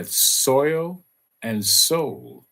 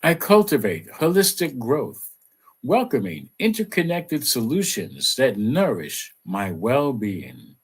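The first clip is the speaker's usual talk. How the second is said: affirmation read. Acted. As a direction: recite it like a gentle mantra. Repeats affirmation.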